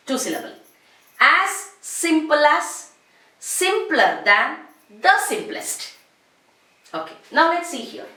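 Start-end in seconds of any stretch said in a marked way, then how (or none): 1.2-5.9 slow, spaced model recital; slow drilled pattern. Shown as a demonstration. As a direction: say each degree clearly for the class. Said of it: "For example, simple".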